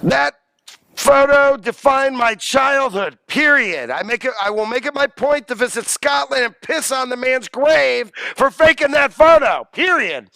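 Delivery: mock outrage, loud on key words; emphatic dictated tirade, hammed-up indignation; extremely upset. Professor acting out a quote on the faked Loch Ness photo, extremely upset. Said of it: "is extremely upset that the man faked".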